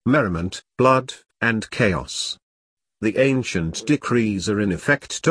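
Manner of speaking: a touch of operatic grandeur; near-operatic proclamation. A narrator's reading. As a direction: proclaim it with ceremonial weight, drawing out the words. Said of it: "his voice now verging on operatic".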